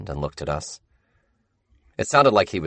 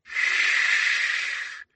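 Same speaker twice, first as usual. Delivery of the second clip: hushing; 3 dB quieter than usual. Acted.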